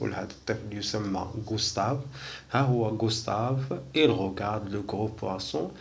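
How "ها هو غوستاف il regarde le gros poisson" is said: very slow, every French word laid out; slow model reading. Shown as a demonstration. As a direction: spell the sentence out slowly for beginners. (قراءة بطيئة جدًا للجملة الفرنسية)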